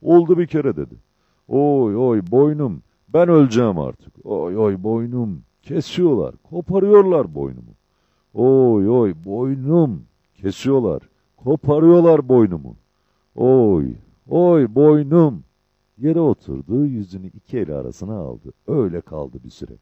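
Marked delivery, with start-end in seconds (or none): 0.0-0.8 loud, high-pitched insistence; insistent. A narrator's reading. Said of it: "Çavuş üsteledi". 1.5-15.4 loud, drawn-out cries of agony; wailing in pain. A narrator's reading. Çavuş boynunun acısıyla feryat ediyor.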